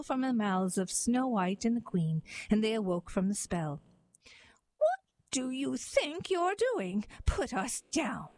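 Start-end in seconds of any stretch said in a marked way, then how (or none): 4.8-8.3 shouting. Acted. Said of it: "they shouted".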